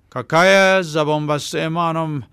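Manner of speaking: a rough southern henchman trying to explain himself; lightly voiced pleading tough guy. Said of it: "عقرب دوباره تلاش کرد توضیحی بدهد".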